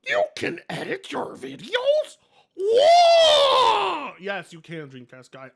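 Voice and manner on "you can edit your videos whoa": higher, louder hammed-up amazed shout; mock amazement. Streamer playing the clueless creator, shouting in mock amazement. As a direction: play the clueless guy discovering editing.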